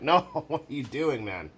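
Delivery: incredulous laughing no; laughing disbelief. Retold or imitated. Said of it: "I'm like".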